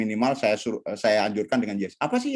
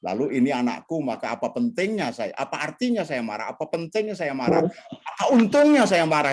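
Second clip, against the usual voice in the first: calm self-talk; 4 semitones lower than usual. Shown as a demonstration. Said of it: "sentuh tubuhmu sendiri dan katakan".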